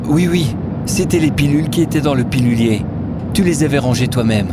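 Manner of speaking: a hint of a reassuring younger woman; lightly voiced companion. (légère voix de compagne rassurante)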